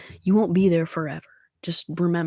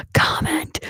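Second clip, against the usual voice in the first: gasp, then a much higher squeaky "Comment!"; imitating her own thrilled reaction to a new comment; excited squeal; 11 semitones higher, 4 dB louder than usual. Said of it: "I'm like".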